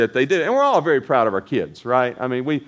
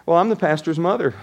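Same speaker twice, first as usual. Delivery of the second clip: indignant; 3 semitones higher, faster than usual. Retold or imitated. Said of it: "she said kinda indignantly".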